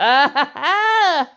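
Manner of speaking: high, squealing over a cute card; can't contain the excitement, voice climbing; real excitement. Real, not acted. Opening a card pack, gushing over a cute Vulpix, excitedly. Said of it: "I got a little bit excited there".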